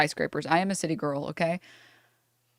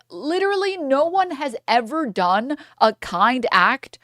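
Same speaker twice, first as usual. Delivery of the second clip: mock business bro; 4 semitones higher, slower than usual. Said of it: "they're like".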